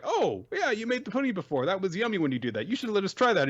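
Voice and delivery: high-pitched imitation of eager girls; coaxing girls. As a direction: sweet-talk him in a put-on high voice. Girls coax Naputaku for pudding.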